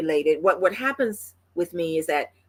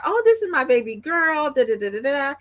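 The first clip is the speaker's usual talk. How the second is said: put-on lilting, higher-pitched baby talk; doting grandma cooing; 6 semitones higher than usual. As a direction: coo over a new baby girl. Cooing over newborn granddaughter.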